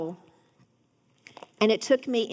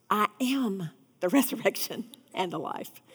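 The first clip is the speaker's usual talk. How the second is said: laughing through the quote; 3 semitones lower, 4 dB quieter than usual. Acted. Quoting Jesus, breaks into laugh.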